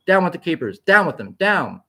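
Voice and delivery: rally the street against the keepers; protest shout. A narrator's reading. Protesting woman shouts at the street after the bomb, loud.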